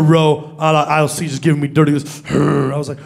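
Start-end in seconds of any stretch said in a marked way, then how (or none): 2.3-2.7 short low rumbling "hurr"; grunted growl. Retold or imitated. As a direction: imitate a hostile little growl. Trading dirty looks on boarding.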